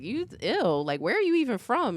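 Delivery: mimicked snooty, incredulous question; disgusted schoolkids. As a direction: imitate a kid turning up their nose. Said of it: "they're just like".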